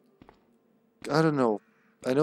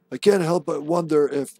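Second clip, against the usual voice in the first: Dario; 2 semitones higher, 3 dB louder than usual. Acted. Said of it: "That's kind of Dario's voice".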